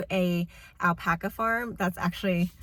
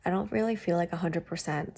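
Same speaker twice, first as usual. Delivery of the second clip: blocked nose. Real, not acted. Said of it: "I'm pretty congested right now".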